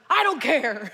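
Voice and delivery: loud defiant retort; screaming match. Acted. Stranger rejecting Norm's message, yelling. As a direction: yell it to shut him down. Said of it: "they begin a screaming match".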